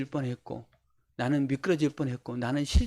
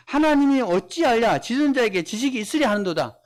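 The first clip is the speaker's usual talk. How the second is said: higher, louder rhetorical scoff; mocking challenge; 4 semitones higher, 3 dB louder than usual. Straying believer deriding God, raised mocking challenge. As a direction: throw it out as an acted challenge to God. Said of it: "하나님을 조롱하고 비난하며".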